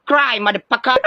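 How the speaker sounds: gloating shout; taunting yell. Acted. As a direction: rub the win in. Taunting the loser. (pasigaw na pang-aasar)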